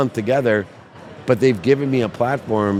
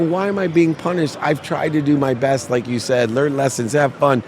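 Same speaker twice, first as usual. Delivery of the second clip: anguished pleading; 5 semitones higher than usual. Retold or imitated. Acts out anguished plea to mother.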